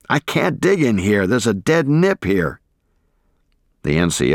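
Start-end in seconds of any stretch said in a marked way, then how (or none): 0.1-2.6 higher, gagging cry of desperation; desperate yell. Acted. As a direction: yell it out, choking in panic. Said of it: "as I yelled in desperation".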